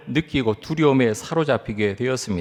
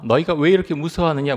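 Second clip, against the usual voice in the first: quick repeat; 3 semitones higher, faster than usual. Retold or imitated. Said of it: "물으십니다".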